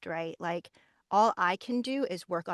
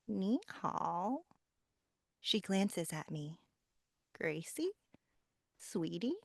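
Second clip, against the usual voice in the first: mother voice; 6 dB quieter, slower than usual. Shown as a demonstration. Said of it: "the mother".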